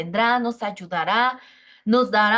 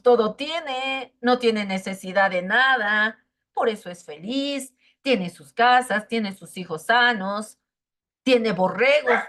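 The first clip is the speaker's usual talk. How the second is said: enemy's voice. Retold or imitated. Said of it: "y le dice el enemigo".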